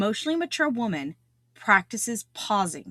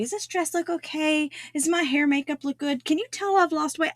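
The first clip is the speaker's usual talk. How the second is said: high-pitched mock validation-seeking questions; acted-out insecure woman, voice lifted high; needy woman imitation; 8 semitones higher than usual. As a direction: imitate someone fishing for reassurance, pitched up. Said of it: "the woman who's asking everybody".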